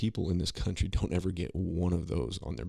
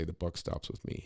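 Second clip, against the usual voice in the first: mocking Biden quote; 5 dB quieter than usual. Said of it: "he'll stand there and say".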